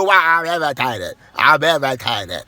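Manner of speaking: mildly mocking, drawn-out "irritated"; lightly voiced put-out sister; imitating irritated sister. Brother parrots sister who greeted him with nothing else, mock-irritated. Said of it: "they said nothing to you".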